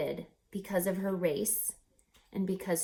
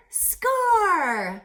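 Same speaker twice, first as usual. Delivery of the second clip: loud, higher triumphant shout; 10 semitones higher, 8 dB louder than usual. Acted. Reader celebrating Ray becoming an engineer, triumphant. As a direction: punch it like a win.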